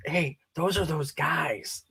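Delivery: hushed, slow crowd murmur; imitated whispering. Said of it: "and they're whispering".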